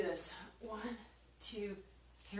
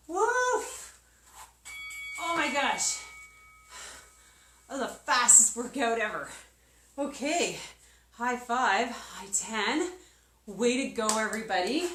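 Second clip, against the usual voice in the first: excited; 2 semitones higher, 4 dB louder than usual. Real, not acted. Cheering after finishing workout.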